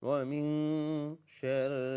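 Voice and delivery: slow, measured tajweed recitation on a near-level tone; Quran recitation. Shown as a demonstration. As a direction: recite it slowly with long held vowels. Recites again.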